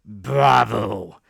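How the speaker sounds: loud, rousing bravo; hearty cry. A narrator's reading. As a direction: burst out in delight. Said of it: "the squire cried".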